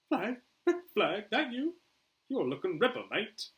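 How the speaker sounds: high, loud bad Australian accent; attempted Australian accent. Boomer greets his old friend Flag, Australian accent. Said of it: "I can't do an Australian accent today".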